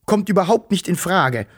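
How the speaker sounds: mildly stern refusal; a touch of strictness. Acted. Father sternly refusing his daughter. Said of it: "sagte er streng".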